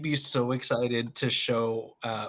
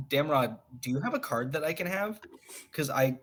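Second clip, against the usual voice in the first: worried appeal; 3 semitones higher than usual. Acted. Hobbit asking Damrod for a card, mildly worried. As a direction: voice rises as the worry runs on. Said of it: "and be like".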